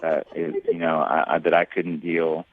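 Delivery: low, soothing reassurance; consoling apology. Real, not acted. Man reassuring and apologising to his tearful date, consoling. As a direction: gently stop her self-blame, pitched well down.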